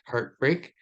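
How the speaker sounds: "heartbreak" with equal weight on "heart" and "break"; spondaic stress. Shown as a demonstration. Lecturer gives a spondee example, double stress on "heartbreak". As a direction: stress both halves of "heartbreak" evenly. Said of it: "two stressed".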